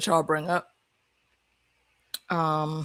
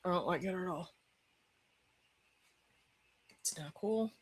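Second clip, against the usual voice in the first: tearful; 13 dB quieter than usual. Real, not acted. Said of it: "still in fucking tears".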